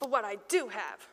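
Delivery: measured phrase, leaning on "do"; repeat-after-me recital. Shown as a demonstration. Teacher feeding Peter's line to children, measured recital. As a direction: set out each word for echoing. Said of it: "Repeat after me".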